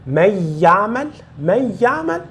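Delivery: من يعمل with a short merged y, no held nasal; lacking ghunna. Shown as a demonstration. Teacher shows what is missing, non-nasal من يعمل. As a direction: glide quickly from من to يعمل, leaving out the hum. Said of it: "mas falta o ghunna".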